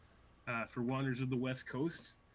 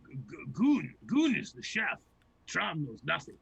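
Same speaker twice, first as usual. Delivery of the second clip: dumb ogre voice; 4 dB louder than usual. Acted. Two-headed ettin arguing, dumb head.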